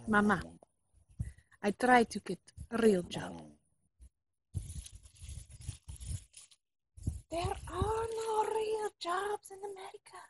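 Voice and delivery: put-on exasperated son, Russian accent; fake Russian accent. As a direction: argue back in Russian accent. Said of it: "fake Russian spy".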